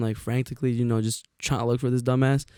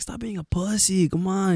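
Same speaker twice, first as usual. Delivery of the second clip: goading; 6 semitones higher than usual. Retold or imitated. Goading scared friend in retold story.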